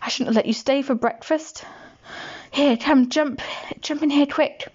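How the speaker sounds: put-on hurried, fretful housewife hiding a boy; a hint of a fussing woman; giant's wife. Giant's wife speaks to Jack.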